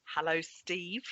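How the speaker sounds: echoey, like a departure lounge; roomy echo on the voice; big hall echo. Real, not acted. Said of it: "you sound a bit echoey".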